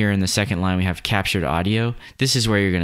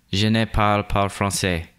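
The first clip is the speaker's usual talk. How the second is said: "Je ne parle pas français" with a clumsy American French accent; an English speaker's badly attempted French accent; terrible French accent. Shown as a demonstration. Recording the French voiceover for the tutorial, clumsy French accent. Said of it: "terrible, terrible French accent".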